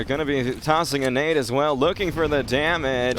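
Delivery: DJ Wheat radio caster. Pretend. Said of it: "D J Wheat impressions".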